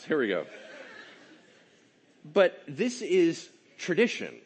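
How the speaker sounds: ordinary delivery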